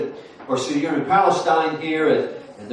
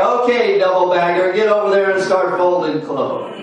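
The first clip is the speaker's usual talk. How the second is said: higher, louder order; mock boss; 4 semitones higher, 4 dB louder than usual. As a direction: send him off to fold clothes. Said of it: "And it's like".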